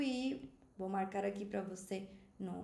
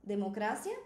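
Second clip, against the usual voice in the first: "Democracia" stressed on CRA, rising at the end; Spanish stress. Shown as a demonstration. Teacher asks students to repeat after her, Spanish stress. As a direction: model it for repeating, leaning on CRA. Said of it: "Fala depois de mim".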